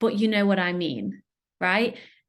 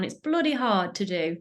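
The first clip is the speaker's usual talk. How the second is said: mock British accent. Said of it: "Let me put my proper British accent on".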